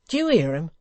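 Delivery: loud, urgent commands; Hugh ordering. Acted. Hugh ordering Dennis to pull the bars, loud. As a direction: bark the orders.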